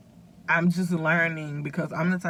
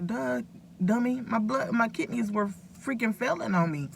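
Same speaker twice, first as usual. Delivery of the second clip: higher, teasing scold at herself; duh, dummy, pitched up in mock scorn; self-mocking; 5 semitones higher than usual. Real, not acted. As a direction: roll your eyes at your own foolishness. Mocking her past self.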